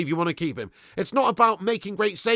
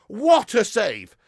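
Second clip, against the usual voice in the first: excited; 4 semitones higher, 7 dB louder, much slower than usual. Real, not acted.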